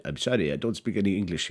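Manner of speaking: retold line in a put-on Russian accent. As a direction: imitate her halting English with a Russian accent. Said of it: "in my finest Russian accent".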